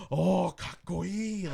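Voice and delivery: drawn-out, high, loud mock admiration; imitated awe. Imitating Japanese players impressed by his swearing, exaggerated awe. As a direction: gush like an impressed fan, stretching it out. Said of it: "they're just like".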